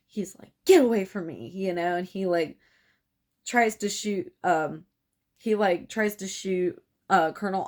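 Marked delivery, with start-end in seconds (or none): 0.7-1.5 louder frightened cry; scared shout. Retold or imitated. Boyd facing Colonel Ives, louder scared cry. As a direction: push him off with a scared yell. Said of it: "And Boyd's scared".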